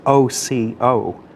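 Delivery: "O C O" said as three separate letters; slow, deliberate "O C O", each letter named; spelled-out letters. Shown as a demonstration. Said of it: "we've gotta get it right".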